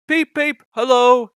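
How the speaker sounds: high, loud whistling peep; cheerful whistle. A narrator's reading. Henry whistling hello to the boys, cheerful. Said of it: "he whistled cheerfully".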